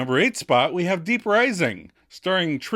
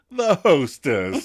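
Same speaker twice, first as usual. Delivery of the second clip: announcer voice; 4 dB louder, slower than usual. Pretend. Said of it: "Why the voice?".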